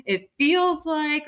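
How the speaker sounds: very slow, drawn-out "feels like"; slow demo phrasing. Shown as a demonstration. Host modelling a gentle opener for listeners, very slow. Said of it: "when you go and say".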